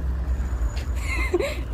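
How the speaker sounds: high, airy burst of laughter; real amused laugh. Real, not acted. Woman surprised by a rough cat, high airy laugh.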